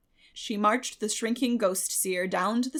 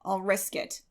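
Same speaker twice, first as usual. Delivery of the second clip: unfeeling. A narrator's reading. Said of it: "said Marilla unfeelingly".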